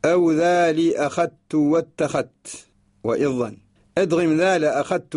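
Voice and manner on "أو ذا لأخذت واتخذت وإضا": slow chanted verse; verse recitation. Shown as a demonstration. Teacher reciting the poem line, slow chant. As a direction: intone it slowly. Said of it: "ثم قال".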